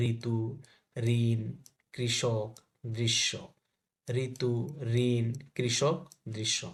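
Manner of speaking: ঋতু, ঋণ, কৃষক, দৃশ্য with a "ri" sound; word-by-word drill of "ri" in ঋতু, ঋণ, কৃষক, দৃশ্য. Shown as a demonstration. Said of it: "রির মতো হবে". (ঋতু, ঋণ, কৃষক, দৃশ্য-তে "রি" উচ্চারণ)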